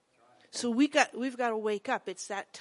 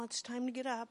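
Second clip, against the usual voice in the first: put-on soft, gentle mother waking her boys; gentle wake-up; 7 dB quieter than usual. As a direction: coax them gently out of sleep. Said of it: "I was real gentle".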